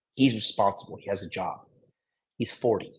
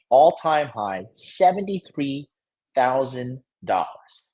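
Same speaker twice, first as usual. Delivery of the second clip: worked-up rant; 3 semitones higher than usual. Real, not acted. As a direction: hammer each date in outrage. Ranting about bad timing.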